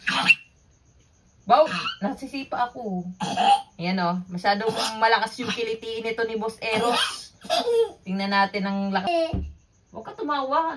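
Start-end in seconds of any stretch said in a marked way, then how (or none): 4.3-9.1 laughing. Real, not acted. Tickling a client during massage.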